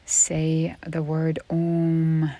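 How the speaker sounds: slow phrase with "Om" drawn out long; elongated Om. Shown as a demonstration. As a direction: stretch the word "Om," into a long, sustained hum. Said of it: "nice and elongated".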